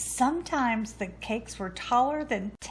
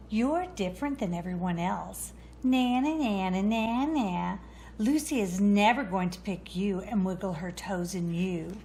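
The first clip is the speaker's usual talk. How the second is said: mocking taunt. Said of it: "made fun of the little brown boot".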